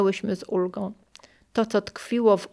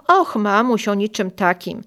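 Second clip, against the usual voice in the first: brushing it off, louder on och; offhand; 4 dB louder than usual. Retold or imitated. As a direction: casually dodge the question. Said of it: "odpowiedziała zdawkowo". (zdawkowo, od niechcenia)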